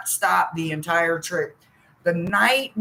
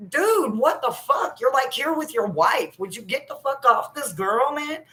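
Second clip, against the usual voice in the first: mock Thomas telling him off, pitched way up; 1 indignant outburst; 7 semitones higher than usual. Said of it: "And Thomas is like".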